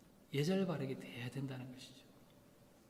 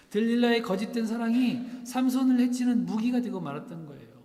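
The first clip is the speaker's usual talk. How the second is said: louder, higher, driving the point home; forceful preaching; 7 semitones higher, 9 dB louder than usual. Acted. Pastor to congregation, forceful preaching.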